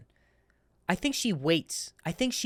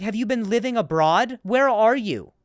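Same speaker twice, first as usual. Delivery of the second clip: exasperated loud question; 4 semitones higher, 5 dB louder than usual. Retold or imitated. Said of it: "I was like".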